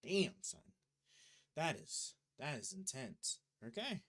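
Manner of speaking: loud, high amazed whoop; excited shout. Real, not acted. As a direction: whoop at the roaring fan. Fan revs loudly on startup.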